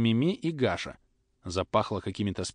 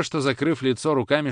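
plain reading voice

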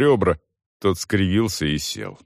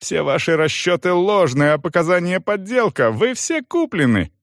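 angry shouting; 11 semitones higher than usual. A narrator's reading. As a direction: rant at the commission. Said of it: "заорал Салон".

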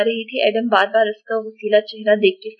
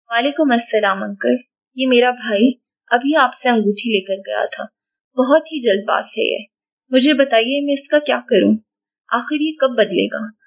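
ordinary delivery

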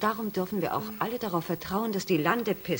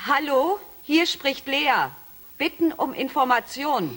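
higher, louder and slow over the intercom; calling out; 5 semitones higher, 3 dB louder than usual. Acted. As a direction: announce yourself clearly down the line. Lea calls over the intercom. (laut und langsam ins Bordfunkgerät rufen)

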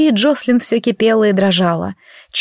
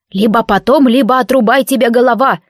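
threatening bandit voice. Acted.

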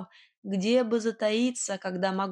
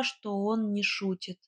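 plain reading voice

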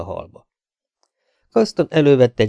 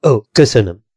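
grateful; 8 dB louder than usual. A narrator's reading. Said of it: "mondta hálásan".

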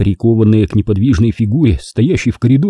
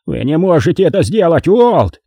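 terrified plea; 7 semitones higher than usual. Acted. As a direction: beg him to stop. Morgan pleading in terror.

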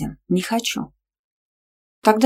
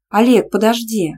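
calling out; 4 semitones higher, 6 dB louder than usual. A narrator's reading. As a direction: call after him, higher and louder. Calling after Oleg. (окликает, громче и выше)

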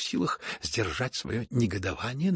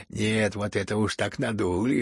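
usual speaking voice

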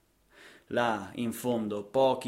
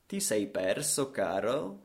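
cows' look; 2 semitones lower, slower than usual. Acted. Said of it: "ti guardano con quell'aria da".

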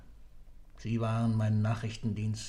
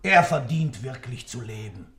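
bitter outburst; 3 semitones higher, 7 dB louder than usual. Acted. Bitter echo of the judge.

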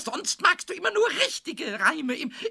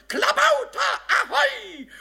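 calling across the sea; 8 semitones higher, 3 dB louder, slower than usual. Pretend. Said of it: "da schrei ich dann rüber".

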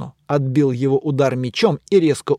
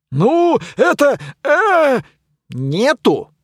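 knight fumbling; 10 semitones higher, 4 dB louder, much slower than usual. Acted.

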